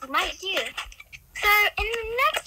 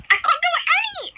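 laughing; 9 semitones higher, 6 dB louder, much faster than usual. Real, not acted. Stuck, laughing.

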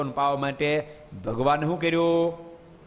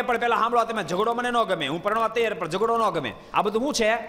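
coaxing enchantress; 6 semitones higher than usual. Acted. Mohini coaxing the demons.

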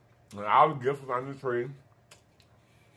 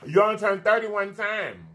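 higher, brighter You only turn thirty one time; excited repeat; 5 semitones higher than usual. Real, not acted. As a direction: say it again with birthday excitement.

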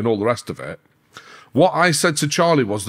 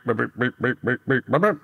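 phone beeping imitation. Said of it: "my fucking phone starts going beep".

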